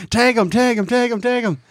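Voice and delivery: high excited yelling; yelling parents. Retold or imitated. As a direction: yell it from the stands. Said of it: "everybody was yelling at me".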